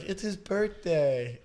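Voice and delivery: slow, drawn-out mock plea; lightly voiced pleading sister, stretching it out; retold sister's plea. Sister pleading to the officer, drawn-out plea.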